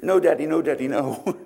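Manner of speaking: put-on child's plea. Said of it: "my only statement was".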